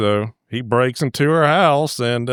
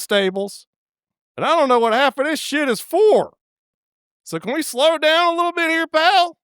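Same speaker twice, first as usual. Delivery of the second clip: higher put-on woman's voice, lightly played; mock flustered woman; 8 semitones higher than usual. Teller voicing Anastasia balking at the dungeon, higher pitched. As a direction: squeak it out like a nervous young woman. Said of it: "she's like".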